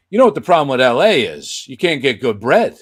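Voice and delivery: lounge-singer puppet with a complaint; Johnny's voice. Retold or imitated. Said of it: "I said".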